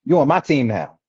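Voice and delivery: sing-song taunt, playing the bigger fighter who wins; Boo Boo the Fool. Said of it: "Boo Boo the Fool gonna come right around the corner".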